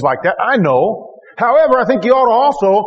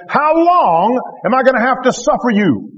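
frustrated; 4 semitones higher than usual. Retold or imitated. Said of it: "the Lord looks frustrated here".

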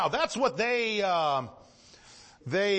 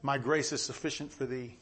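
lower, softer, solemn voice of God; 6 semitones lower, 5 dB quieter than usual. Acted. Preacher quoting God to the congregation, low and soft. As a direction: hush down and speak as God. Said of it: "God says".

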